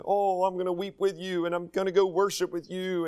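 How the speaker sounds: softly imitated false compassion; feigned sympathy. Deceiver pretending to mourn with pilgrims, feigned sympathy. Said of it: "you know, pretending to".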